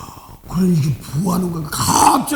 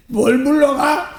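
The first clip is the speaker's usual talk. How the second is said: laughing scoff; 4 semitones higher, slower than usual. Real, not acted. Laughing at his own exorcism.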